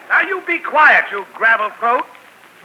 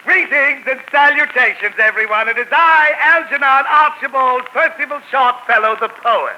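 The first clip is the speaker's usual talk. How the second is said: pompous poet. Acted. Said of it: "it's that crazy poet".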